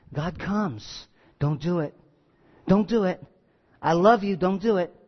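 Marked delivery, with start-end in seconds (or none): 1.4-4.9 gentle pleading. Retold or imitated. God comes to Cain before the sin, gentle pleading. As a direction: plead quietly, as if talking someone out of it.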